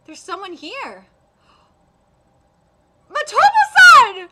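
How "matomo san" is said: high, loud, slow call across the station. Acted. Natsume calling out to Matobe across the station, loud. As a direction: call out to him from afar.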